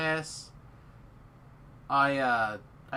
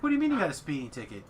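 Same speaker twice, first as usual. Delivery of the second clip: retold angry wife; faster than usual. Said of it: "And she's pissed".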